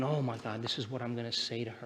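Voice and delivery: inner voice. Retold or imitated. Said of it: "you start thinking".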